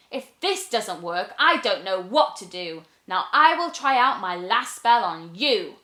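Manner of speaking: lightly voiced, tense little witch; a touch of a fed-up witch. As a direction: mutter a last-chance threat. Witch's last try.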